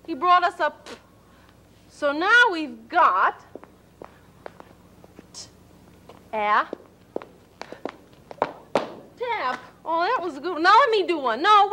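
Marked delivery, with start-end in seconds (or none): 0.0-9.6 put-on sounding out a word for children. Shown as a demonstration. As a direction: stretch each sound apart: t, a, p. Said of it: "sounding out letters".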